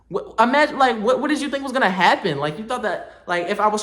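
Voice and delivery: fired-up disbelief at the quiz; exasperated rant. Real, not acted. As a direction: push it up in outrage. Ranting at the agent.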